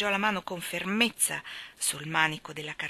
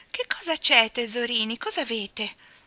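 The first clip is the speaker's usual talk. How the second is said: sugary mock-kind tone, higher; falsely gentle; 4 semitones higher, 4 dB louder than usual. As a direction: sweet-talk the crying twins insincerely. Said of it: "con voce falsamente gentile".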